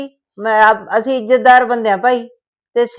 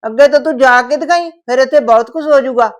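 angry scolding; 2 semitones higher than usual. Acted. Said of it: "ਗੁੱਸਾ ਆਇਆ".

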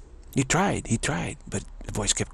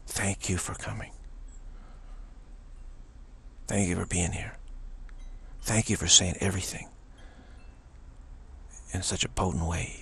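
grateful devotee; 6 dB quieter than usual. Retold or imitated. Grateful devotees thank the sage.

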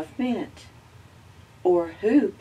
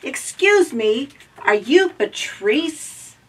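higher, loud, slow polite robot; little robot voice; 8 semitones higher, 7 dB louder than usual. Acted. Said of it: "Z asked around".

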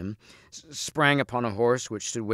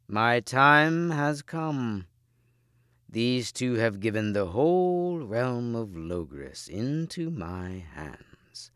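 gloating villain; 2 semitones higher, much slower than usual. Acted.

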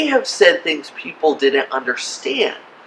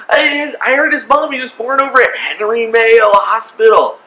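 higher, emphatic scoffing; mock incredulous; 4 semitones higher, 3 dB louder than usual. Doubter disputes a claim of heavenly birth, mock incredulous. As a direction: play a doubter protesting with local gossip.

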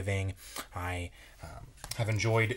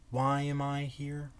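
storybook reading; 2 semitones higher than usual. Acted. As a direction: read it like a bedtime story, wondering aloud. Reads the picture book aloud.

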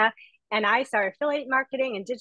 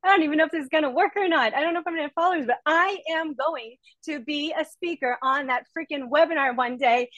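raised, higher-pitched declaration; determined vow; 4 semitones higher than usual. Retold or imitated. Telling her husband she will speak on that webinar, determined. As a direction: swear it to yourself like a promise. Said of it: "And I said to my husband".

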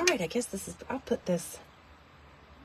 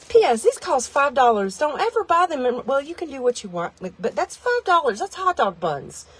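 indignant rant; 5 semitones higher, 3 dB louder than usual. Real, not acted. Ranting about overpriced buns.

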